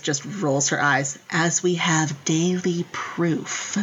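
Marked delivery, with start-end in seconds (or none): 1.3-3.8 dry, slow sarcastic aside. Retold or imitated. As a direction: roll your eyes through it. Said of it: "says very sarcastically".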